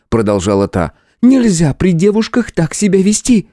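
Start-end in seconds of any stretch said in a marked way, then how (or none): 1.2-3.5 scolding sister. A narrator's reading. Teruko scolding the hero.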